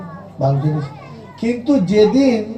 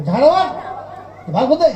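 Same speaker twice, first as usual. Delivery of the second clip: angry father's order; 5 semitones higher than usual. Retold or imitated. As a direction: bark it like a father urging his son on. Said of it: "আপনি বাপ হয়ে ছেলেকে কি সাহস দিলে".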